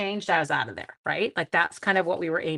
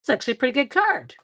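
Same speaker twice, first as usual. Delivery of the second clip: pleasantly surprised; 5 semitones higher, 3 dB louder, faster than usual. Retold or imitated. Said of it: "you're like".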